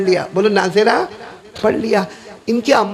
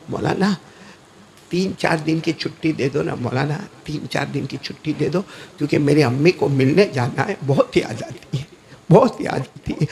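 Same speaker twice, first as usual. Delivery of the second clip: put-on pleading homesick child; 6 semitones lower than usual. Homesick boy begs for leave.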